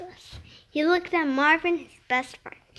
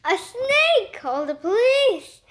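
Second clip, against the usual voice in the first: high, frantic cry of alarm; terrified officer; panicked scream; 6 semitones higher than usual. Acted. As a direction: shriek in panic. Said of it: "Officer Davis screamed".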